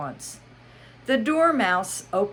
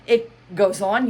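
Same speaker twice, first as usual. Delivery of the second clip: Hatter voice; 4 semitones higher, 8 dB louder than usual. Acted.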